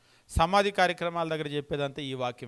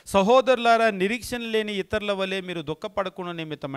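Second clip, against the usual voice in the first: loud, emphatic opening to the scripture; emphatic verse; 4 semitones higher, 5 dB louder than usual. Shown as a demonstration. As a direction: call out సహోదరులారా loud, then read on. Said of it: "పదమూడవ వచనం మనం గమనించినప్పుడు".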